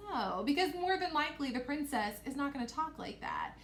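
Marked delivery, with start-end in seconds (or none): 0.1-0.4 putting on a slightly deep voice. Shown as a demonstration. Teacher showing the wrong princess voice, deep. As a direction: drop into a mock deep princess voice. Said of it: "make my voice really deep like this".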